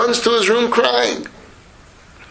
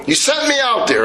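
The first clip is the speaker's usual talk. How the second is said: hurt accusation; 6 semitones higher than usual. Acted. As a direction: let the grievance break out. Son accuses father.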